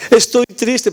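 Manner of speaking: lightly voiced little girl, mock whimper; mock crying girl. Ten-year-old telling the pastor her life is worthless, mock sobbing. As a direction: play a weepy ten-year-old, half-hearted. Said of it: "una niñita que estaba llorando".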